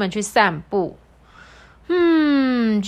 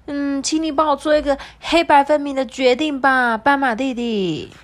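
high sweet antelope voice; 7 semitones higher, 3 dB louder than usual. Acted. Antelope asks about flowers.

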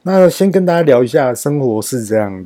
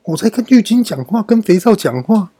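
higher, exasperated retelling of her scolding; mock angry wife; 4 semitones higher than usual. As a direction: play the annoyed wife, voice climbing. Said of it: "莫妮卡又很生气的说". (模仿莫妮卡生气地抱怨)

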